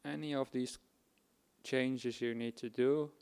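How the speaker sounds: measured instructions, pausing between phrases; guided meditation. Acted. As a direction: guide them unhurriedly into body awareness.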